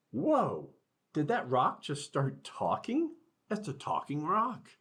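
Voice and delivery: high, surprised student voice; amazed kids. Acted. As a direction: gasp at a rock that talks. Students amazed at talking rock.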